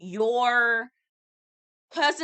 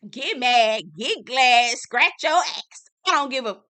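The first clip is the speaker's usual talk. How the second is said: louder, slow, taunting; defiant Kiki; 5 dB louder than usual. Retold or imitated. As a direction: throw it back in their face. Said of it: "Kiki then gets upset".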